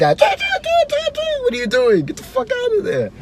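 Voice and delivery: very high, panicked lifeguard squeal; frantic lifeguard. Retold or imitated. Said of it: "the lifeguard's like".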